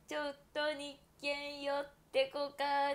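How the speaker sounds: slow, drawn-out ad jingle voice in Toyama dialect; imitating a TV ad. Telling fans about a Toyama TV ad, slow mock jingle. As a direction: sell it like a regional TV commercial. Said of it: "っていうシーエムがあるんだけど".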